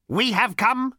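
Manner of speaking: high, loud robot rasp. A narrator's reading. Robot states its mission to Zaphod, rasping. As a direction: rasp it out like a lifeless machine. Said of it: "rasped the robot".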